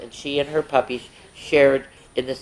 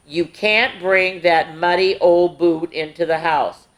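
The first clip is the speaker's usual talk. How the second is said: slow firm mother voice. Acted. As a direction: lay down the rule. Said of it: "said firmly".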